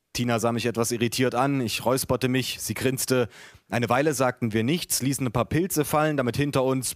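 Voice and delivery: measured, lively book-reading voice; story narration. A narrator's reading. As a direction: read your own story to an audience. Reads own book aloud.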